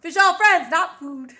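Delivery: light, playful Australian imitation; Australian accent. Shown as a demonstration. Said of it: "let me hear your Australian accent".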